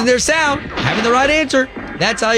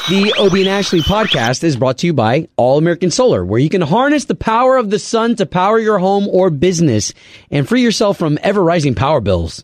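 booming prize announcer; 3 semitones lower than usual. Acted. Live sponsor read.

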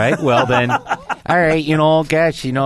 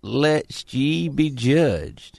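mock Southern preacher; 5 semitones higher, slower than usual. Mock preacher quoting scripture.

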